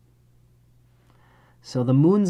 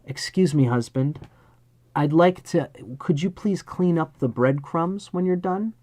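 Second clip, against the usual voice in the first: squeaky voice; 3 semitones higher than usual. Retold or imitated. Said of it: "you have a very squeaky voice".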